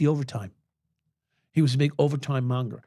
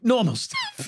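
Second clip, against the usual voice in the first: laughing; 9 semitones higher, slower than usual. Real, not acted. Laughing echo of dry joke.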